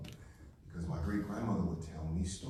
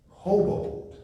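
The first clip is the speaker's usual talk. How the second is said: hoboed said much higher and louder, stretched out; punched word; 14 semitones higher, 7 dB louder than usual. Shown as a demonstration. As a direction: hit hoboed hard and high for the crowd. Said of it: "say that again".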